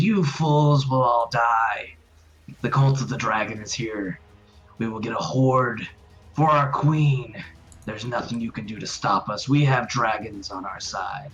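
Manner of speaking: snarled, growling tone. Game master voicing a restrained captive who snarls at the players: snarling. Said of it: "He snarls at you and says".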